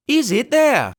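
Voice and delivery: high, loud roar. Acted. Pugh roars up at the window, loud. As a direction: roar the question up. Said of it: "roared Pugh".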